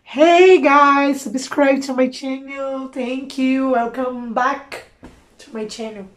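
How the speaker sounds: put-on slow, heavy Indian-accented English; lightly hammed-up Indian accent English; mock Indian English. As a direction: parody an Indian youtuber's intro in his accent. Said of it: "o inglês dessas pessoas".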